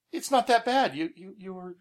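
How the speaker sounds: a high, lightly accented mock Pete; bad Pete impression. Teasing a friend about his ride complaints, a bad high impression. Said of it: "I'm gonna do my Pete impersonation".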